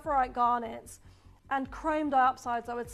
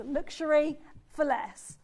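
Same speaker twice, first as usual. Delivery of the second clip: "luxury for less" said slowly and deliberately; measured emphasis on "luxury for less"; emphatic stress. Real, not acted. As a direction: give each part of "luxury for less" its own weight. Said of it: "have emphasis in those two words".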